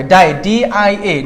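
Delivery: very slow syllable then letters; slow spelling by parts. Shown as a demonstration. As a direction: break the word down slowly. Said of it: "বাকিগুলা দুইটা আর হবে". (ধীরে ভেঙে বানান)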